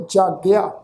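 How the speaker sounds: careful model reading of ਜਾਗਿਆ, ending in open aa; demonstrated pronunciation. Shown as a demonstration. Teacher shows congregation how to read ਜਾਗਿਆ, careful pronunciation. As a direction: say ਜਾਗਿਆ clearly as jaa-gi-aa. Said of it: "ਪਾਠ ਉਚਾਰਨ ਕਰਾਂਗੇ".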